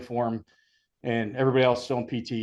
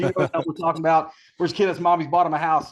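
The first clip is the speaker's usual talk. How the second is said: taunting, laughing, a bit higher; mocking taunt; 4 semitones higher, 3 dB louder than usual. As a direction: rib the recruit in front of everyone, mock-teasing. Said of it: "they said".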